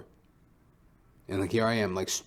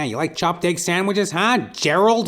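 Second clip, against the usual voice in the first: higher, louder mocking jeer; taunting; 9 semitones higher, 7 dB louder than usual. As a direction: rub it in his face, sneering. Taunting imagined man.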